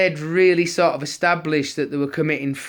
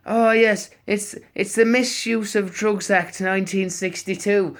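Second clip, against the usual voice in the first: high, louder mock official voice; older officer; 7 semitones higher, 4 dB louder than usual. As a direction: parody the sergeant reciting the act. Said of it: "He went".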